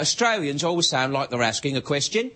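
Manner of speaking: statement with "question" lifted as if asking; Australian-style rise on "question"; questioning uptalk. Shown as a demonstration. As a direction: let "question" swing upward at the end. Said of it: "everything goes up at the end".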